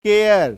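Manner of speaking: केयर said with an open 'a' vowel. Shown as a demonstration. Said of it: "अ के साथ".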